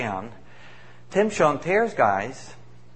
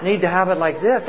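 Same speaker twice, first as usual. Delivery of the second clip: laughing while quoting; 3 semitones higher than usual. Real, not acted. Retelling elder's words, breaks laughing.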